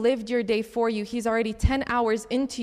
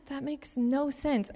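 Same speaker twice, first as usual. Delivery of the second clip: confused; 3 semitones higher, 6 dB quieter, slower than usual. Retold or imitated. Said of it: "And I'm like".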